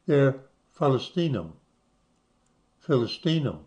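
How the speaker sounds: Palestinum and Philistinum said with a P softened toward B, as in Arabic; teacher sounding out Palestinum and Philistinum for the class; Arabic pronunciation. Shown as a demonstration. Teacher shows students how Philistinum sounds in Arabic. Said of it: "That's how they say it".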